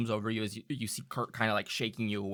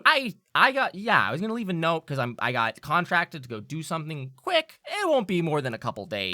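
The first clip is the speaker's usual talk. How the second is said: high, quick rushed excuse; a hint of nervous Kurt; 7 semitones higher, 7 dB louder than usual. Kurt hurriedly explaining his contract to Winslow. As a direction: blurt it out nervously.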